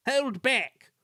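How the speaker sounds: high, loud squeaky stage whisper; conspiratorial high coach voice; conspiring whisper. A narrator's reading. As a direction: pass on the plot in a squeak. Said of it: "whispered Agnes to Ruth".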